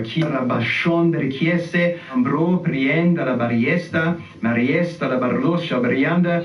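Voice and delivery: fluid made-up syllables, prayer rhythm; praying in tongues. Shown as a demonstration. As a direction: let the tongues flow out. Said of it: "pray in tongues and you can just join me".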